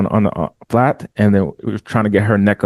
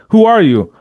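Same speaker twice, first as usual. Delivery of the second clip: asking; 9 semitones higher, 4 dB louder than usual. Retold or imitated.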